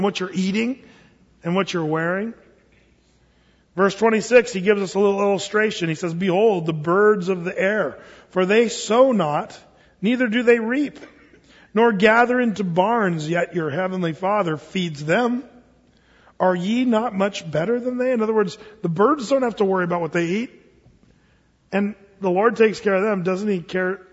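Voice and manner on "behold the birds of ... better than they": slow, measured King James reading; scripture reading. Acted. Pastor reading Matthew aloud in a slow scripture cadence. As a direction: lay the verse out slowly for the flock.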